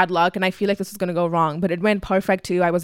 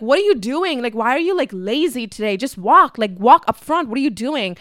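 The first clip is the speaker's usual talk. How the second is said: mildly exasperated, higher-pitched nagging; annoyed mom; 3 semitones higher than usual. Retold or imitated. Mom scolding dad for dawdling, mock annoyed. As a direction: imitate an irritated mother hurrying someone along. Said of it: "my mom is getting annoyed".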